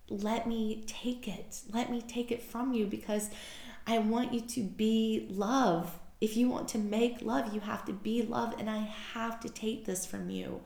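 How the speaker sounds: tender coaxing. Retold or imitated. Guide asking her to let it go, tender coaxing. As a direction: coax softly, with care.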